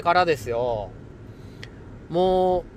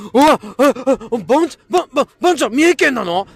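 surprised; 7 semitones higher, 10 dB louder, faster than usual. Real, not acted. Learns listener is from Mie.

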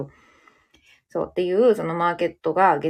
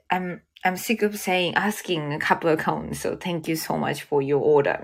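slow tired thanks; much slower than usual. Retold or imitated. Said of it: "みたいな".

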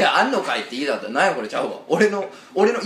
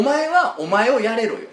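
higher, louder teasing demand; mock yell; 7 semitones higher, 5 dB louder, slower than usual. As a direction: push him playfully, half-shouting. Teasing partner, mock shout.

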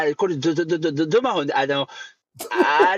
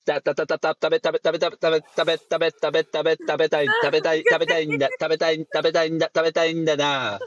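halting stammer with "なんだな" endings; stuttering impression; 3 semitones lower than usual. Stuttering Yamashita Kiyoshi impression.

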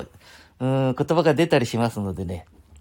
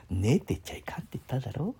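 whisper; 6 dB quieter than usual. Retold or imitated. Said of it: "語尾に必ず寝をつけてた".

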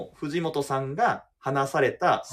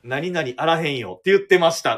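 lightly voiced Kansai-dialect quote, louder; a hint of a Kansai manager; 6 dB louder than usual. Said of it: "絶対関西弁になりますよね". (少し強めの関西弁で監督の言葉を再現)

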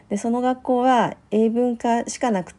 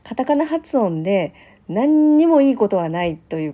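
emphatic raised voice; 3 semitones higher, 5 dB louder than usual. Real, not acted. Telling listeners katakana pronunciation is useless, emphatic and loud. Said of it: "ここで声を大にして言いたいのは".

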